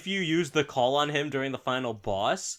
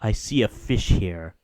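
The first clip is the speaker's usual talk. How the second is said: low grumbling god; 7 semitones lower than usual. Retold or imitated. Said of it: "he's like".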